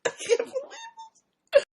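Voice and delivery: squealing laughter, can barely speak; high helpless laugh. Real, not acted. Singer cracking up at the song, helpless laughter. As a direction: lose it completely, real giggles.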